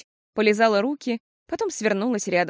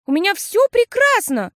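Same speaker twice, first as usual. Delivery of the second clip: put-on cheerful girl; 12 semitones higher, 7 dB louder than usual. A narrator's reading.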